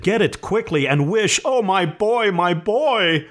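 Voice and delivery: high, desperate pleading; urgent cry rising into anguish; panting urgency. A narrator's reading. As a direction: plead frantically, then wail for your child. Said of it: "she panted".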